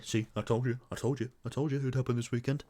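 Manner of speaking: gloating. Pretend. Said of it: "Just so I can say".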